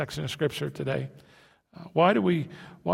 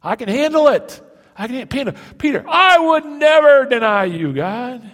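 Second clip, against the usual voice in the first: much higher and louder mock boast; overconfident shout; 10 semitones higher, 11 dB louder than usual. Preacher mocking overconfident believers, loud mock shout. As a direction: blare the vow like a cocky fool. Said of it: "because we've been overconfident".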